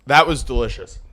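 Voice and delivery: talking through a mouthful of spicy food; words round a hot bite; mouth full of hot food. Real, not acted. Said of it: "My mouth is on fire".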